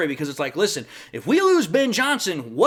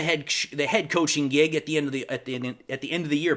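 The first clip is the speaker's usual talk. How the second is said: stumbling, restarting the phrase in a quick, lower mumble; tripping over words; 4 semitones lower, 4 dB quieter than usual. Real, not acted. YouTuber fumbling a point about the head coaching job, tongue-tied. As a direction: trip over your tongue and keep restarting. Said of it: "I'm tripping over my tongue".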